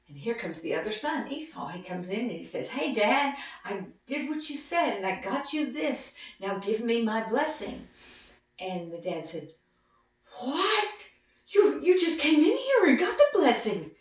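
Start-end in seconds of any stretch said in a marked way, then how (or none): 2.7-7.9 eager son. Acted. Esau eager to his father. 10.4-13.9 high, loud, shocked disbelief; half laughing in disbelief; shocked gasp. Acted. Father realizing he was fooled, loud shocked high question.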